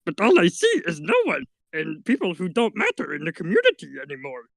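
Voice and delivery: light little Yoda impression. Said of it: "And I just went back into Yoda".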